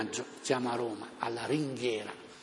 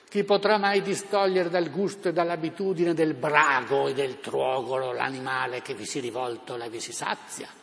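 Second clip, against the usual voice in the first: town crier; 3 dB louder than usual. Retold or imitated. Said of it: "È lui, D'Annunzio".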